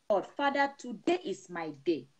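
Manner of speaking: mild imploring cry to Jesus; pleading prayer. Pretend. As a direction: beg the Lord not to pass you by. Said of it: "tell the Lord".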